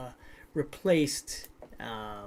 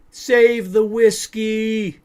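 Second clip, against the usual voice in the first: loud, high, drawn-out yell; yelling grandpa; 8 semitones higher, 13 dB louder, much slower than usual. Acted. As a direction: holler it slowly as a panicking grandpa. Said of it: "Grandpa started yelling".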